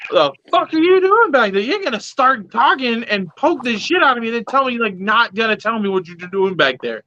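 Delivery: mock outrage, demanding an answer; retold indignant outburst.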